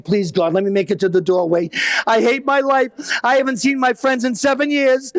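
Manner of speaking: rising, near-tearful begging prayer; desperate plea. Retold or imitated. Crawling dad begs God to reach the door, mock weeping. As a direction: whimper a hammed-up plea to God.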